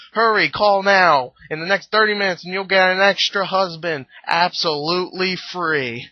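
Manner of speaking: lightly hammed-up TV pitchman; Billy Mays. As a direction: pitch it like a pushy commercial, stretching the hook. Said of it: "Like a Billy Mays commercial".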